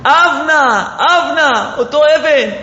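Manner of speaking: retold anguished cry. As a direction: cry out the lament, not full volume. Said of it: "ואז הוא מתחיל לצעוק". (זעקה מבכה, גבוהה ולא חזקה מדי)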